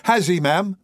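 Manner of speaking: high, hopeful question; a boy lighting up with pleasure; joyful cry. A narrator's reading. Oliver hears he will see his friends, crying with joy. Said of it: "cried Oliver, his face brightening with pleasure".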